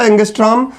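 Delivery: एंगस्ट्रॉम corrected to end in m; correct pronunciation. Shown as a demonstration. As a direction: say एंगस्ट्रॉम, finishing on m. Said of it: "म आएगा".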